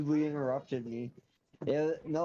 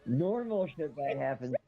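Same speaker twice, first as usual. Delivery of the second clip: muffled, as if through a hand. Real, not acted. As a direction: hand over mouth. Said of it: "it sounds like not muffled, but kinda muffled".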